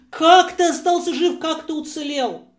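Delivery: high-pitched, incredulous questions; astonished questioning. Acted. Family to the returned soldier they thought dead, astonished. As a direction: ask in amazement, pitched well up.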